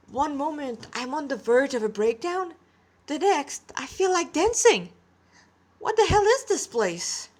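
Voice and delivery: overwhelmed and giddy, pitch rising; a confused boy swept up in sudden joy; rising bewilderment. Acted.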